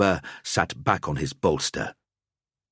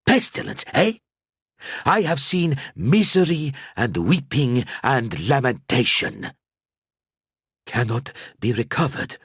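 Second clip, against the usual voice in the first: put-on lamenting old seer; 6 semitones higher than usual. A narrator's reading. Al-Azir warns the knights of darkness, mournful and riddling. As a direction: chant the woes like a prophet.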